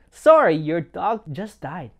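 lightly acted cheeriness, loud and drawn out; mock cheery friend. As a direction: break bad news with a fake smile. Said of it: "sounds like a cheery person smiling and".

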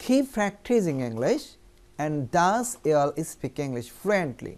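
very slow, deliberate English sentence; slow model reading. Shown as a demonstration. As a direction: drag it out for learners to repeat. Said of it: "অনুশীলন করতে থাকো ইংরেজি". (খুব ধীরে উচ্চারণ)

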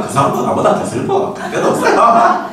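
real laughter mid-lecture; laughing. Real, not acted. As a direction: crack up as you say it. Speaker laughs at own remark.

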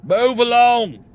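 loud, high, drawn-out guard command; throat-straining shout. Acted. Jail guard ordering a cleric along, straining shout. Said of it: "can't do that anymore. Throat will explode".

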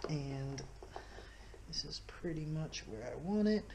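whispered to himself while lining it up; a half-voiced whisper, concentrating. Real, not acted. Whispering to himself while placing the mount.

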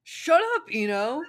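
high, loud yell laughing through it; Naruto yelling. Acted. Naruto yells at Ino, loud high shout. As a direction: shout him down, half laughing.

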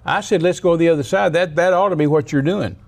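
high-pitched, exasperated scolding; acted indignant complaint; upset. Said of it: "he got upset at the disciples".

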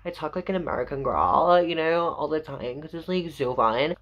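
put-on American accent. Vlogger mocking her old on-camera voice, American accent. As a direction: play around with an American girl's accent. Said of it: "sometimes I mess about with accents".

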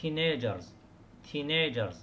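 put-on teenagers stressed on the first syllable, TEEN-agers. Shown as a demonstration. Teacher modelling TEEN-agers for students. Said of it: "على المقطع الأول".

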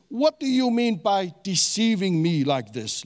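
"deceiving me" leaned on in an accusing question; emphatic reading. Acted. Laban demanding answers of Jacob, emphatic reading. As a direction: hit the words of "What do you mean" firmly. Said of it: "gonna emphasize some of the words".

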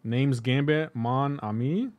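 put-on lightly done Creole accent as Gambit; light Creole accent imitating Gambit; Gambit's Creole accent. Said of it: "It's a Creole accent".

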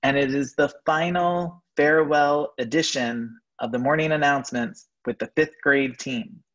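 careful, spaced-out announcing; deliberately slow. Real, not acted. Principal announcing the fifth grade farewell edition, slowly and carefully. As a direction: pick through the words like a tongue twister. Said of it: "I had to say it slowly".

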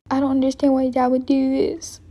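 whispering. Acted. Upset daughter alone.

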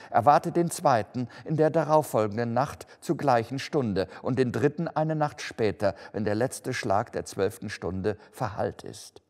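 forceful, solemn pronouncement; commanding ghost. Acted. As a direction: deliver each appointment as a weighty order, easing off between. (gebieterisch verkündende Geisterstimme)

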